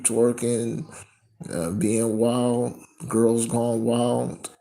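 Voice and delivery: loud, fervent preaching. Acted. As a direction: raise the voice and preach. Preaches loudly on twerking.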